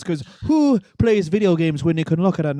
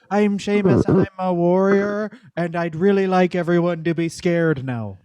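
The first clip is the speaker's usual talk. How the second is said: imitating Sheamus promo; 2 semitones higher than usual. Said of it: "and he goes".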